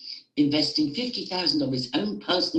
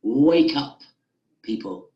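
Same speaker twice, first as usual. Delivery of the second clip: passionate call; 6 dB louder than usual. Real, not acted. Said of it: "getting a bit passionate there".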